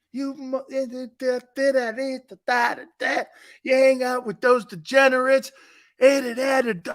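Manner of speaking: high-pitched mock tirade of babbled syllables; scolding grandparent. Grandparent chewing out the kid after his arrest, mock scolding. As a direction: imitate a nagging grandparent, rattling off gibberish.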